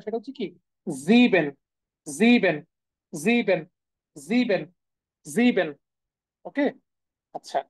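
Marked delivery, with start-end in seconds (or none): 0.9-5.7 "জিবেন" with voiced z, long ee, falling; German s as z. Shown as a demonstration. Teacher drills seven for students, "জিবেন" with initial z. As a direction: drill "জিবেন" singly, buzzing the z. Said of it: "seven এর যে উচ্চারণ".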